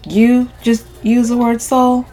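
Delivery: skeptical. A narrator's reading. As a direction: question it slowly, openly doubting. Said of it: "I ask skeptically".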